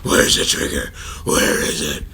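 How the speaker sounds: harsh, voiceless vigilante rasp; forceful rasping interrogation; Batman. Acted. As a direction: growl it loud with no pitch. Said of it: "I thought you misspelled Bane".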